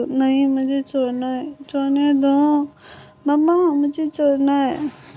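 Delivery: put-on slow, whiny little girl who won't get up; sleepy child begging to sleep on. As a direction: drag the words out like a half-asleep kid. Sleepy child refusing to wake.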